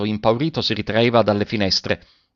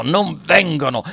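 slow, higher-pitched cry through the teeth; through clenched teeth; 5 semitones higher, slower than usual. A narrator's reading. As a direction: repeat it slowly, rising in desperation. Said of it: "gridava con voce smozzicata fra i denti".

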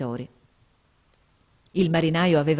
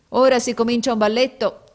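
a bit higher and louder, playful; wry, bright-voiced remark; lively exclamation; 6 semitones higher, 6 dB louder than usual. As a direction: announce it with amused energy. Quote opening the story.

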